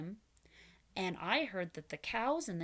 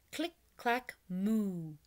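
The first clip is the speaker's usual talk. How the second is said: chanting click clack moo; slower than usual. Shown as a demonstration. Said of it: "Do it with me".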